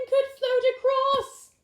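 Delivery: high loud eager voice; excited idea. Acted. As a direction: burst out with the plan.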